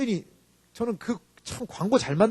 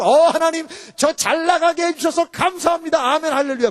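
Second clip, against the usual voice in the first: raised, gushing prayer voice; mock thanksgiving prayer; 9 semitones higher, 4 dB louder than usual. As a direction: rattle off praise like an eager believer. Mimics a glib thanksgiving prayer.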